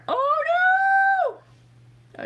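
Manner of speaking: high, loud wail of dismay; long, high-pitched lament; dismayed outcry. Real, not acted. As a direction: cry out at bad news in a story. Reacts to the story she reads.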